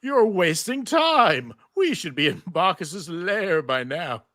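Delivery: slow, heavy voice of Orpheus's severed head; slow ominous head. Acted. Narrator voicing Orpheus to Xena, slow and ominous. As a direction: drag each word out like a scheming head.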